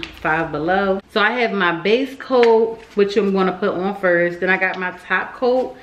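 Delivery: slightly slurred speech with retainers in; wearing a retainer. Real, not acted. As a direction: talk around a retainer in the mouth. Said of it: "if I sound a little, that's 'cause I, um, got my retainers in".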